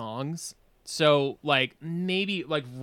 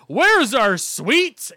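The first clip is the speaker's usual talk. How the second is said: high, loud, drawn-out question; awkward panicked blurt; 7 semitones higher, 8 dB louder, much slower than usual. Retold or imitated. Drunk fan avoiding his idol's eye, awkward panicked blurt. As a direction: blurt it loudly and stretch every word.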